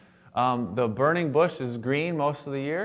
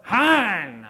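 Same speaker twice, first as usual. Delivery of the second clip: high startled Hebrew cry; surprised exclamation; 6 semitones higher, 4 dB louder than usual. Retold or imitated. Moses answers God's call, surprised exclamation. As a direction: gasp it out in surprise. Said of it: "it's an expression of surprise".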